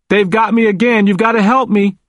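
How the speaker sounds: high-pitched anxious plea; starting to panic. A narrator's reading. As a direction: plead for help, voice pitched well up. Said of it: "He was starting to panic".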